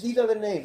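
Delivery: "These are the names" with weight on "are"; emphasis on names. Shown as a demonstration. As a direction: lean on "are" in "These are the names", falling after. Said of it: "what's the emphasis?".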